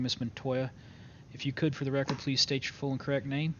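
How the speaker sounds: formal courtroom announcement; court clerk. Acted. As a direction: read it like opening a court session. Opens court session formally.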